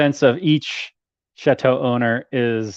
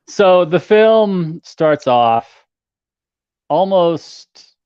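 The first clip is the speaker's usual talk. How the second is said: slow, lofty wine-snob voice, higher and louder; pretentious sommelier; 5 semitones higher, 5 dB louder, much slower than usual. Pretend. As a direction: savor each word like a snooty sommelier. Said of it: "in my most pretentious sommelier behavior".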